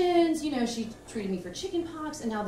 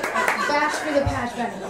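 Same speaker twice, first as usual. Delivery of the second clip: slow puzzling; 5 semitones higher, 8 dB louder, slower than usual. Retold or imitated. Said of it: "it took me a moment".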